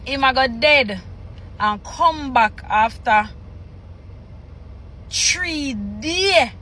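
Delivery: measured read-aloud in Jamaican Patois; scripture reading. Acted. Reader reciting Jesus' words from Patois scripture, measured read-aloud. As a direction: read the verses out phrase by phrase, pausing between.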